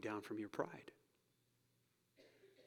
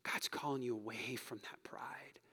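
soft whisper to one listener; whispered appeal; 6 dB quieter than usual. Real, not acted. Pastor softly urging a listener, whispered. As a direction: lean in and whisper it.

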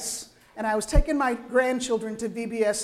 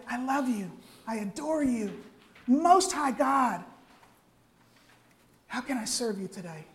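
tender adoration. Acted.

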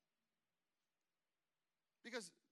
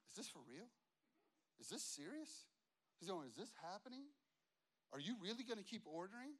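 imitated grumbling from the sidelines, softer; mock chirping; 4 dB quieter, faster than usual. Impatient customer griping beside the pastor's takeout order, mock chirping. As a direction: chirp incredulous little complaints on the side. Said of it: "he's just chirping, like, on the side in my ear".

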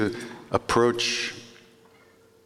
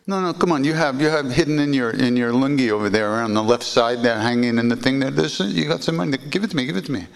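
higher, pressing demand for the money; insistent Maharaji; 5 semitones higher than usual. Retold or imitated. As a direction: push him to hand it over.

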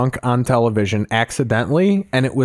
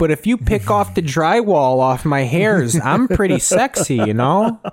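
mock macho guy; 5 semitones higher than usual. Mock homophobe persona, high pitch.

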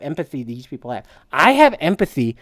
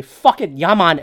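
a touch of put-on Jamaican accent; mock Jamaican accent. Host joking about going Rastafarian, light mock Jamaican accent. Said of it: "sounded like I appropriated the Jamaican accent".

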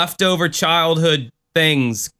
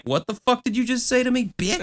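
tough guy; 9 semitones higher, 4 dB quieter than usual. Pretend. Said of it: "I made myself into a tough guy".

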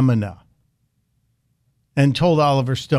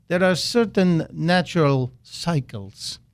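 mock Russian accent, slow and a little softer; bad Putin accent; 3 dB quieter, slower than usual. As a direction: drag it out slowly in a hammed-up Russian accent. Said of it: "my best Vladimir Putin bad accent".

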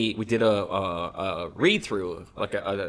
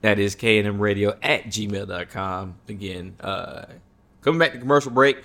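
radio promo read. Acted. Reads the show plug.

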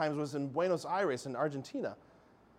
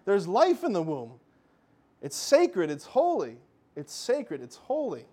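a gentle mother's plea; voicing Mary's plea; 2 semitones higher, 4 dB louder, slower than usual. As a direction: plead as Our Lady warning her children. What do you think she was trying to say?.

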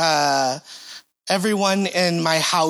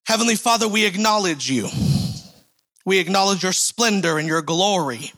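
building, fervent prayer voice that rises toward the middle; public prayer; 3 semitones higher than usual. Acted. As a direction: pray over the congregation, lifting up toward the middle and settling at the amen. Leads a prayer.

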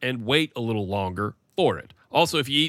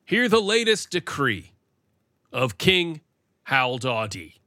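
warm regal boom; 5 semitones higher, slower than usual. Acted. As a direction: proclaim it like a town crier. Royal proclamation.

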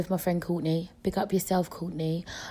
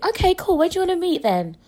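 sarcastic; 9 semitones higher, 6 dB louder, faster than usual. Real, not acted. Sarcastic reply to guy.

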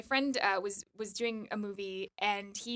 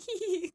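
imitated giggle; 8 semitones higher than usual. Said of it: "I was like".

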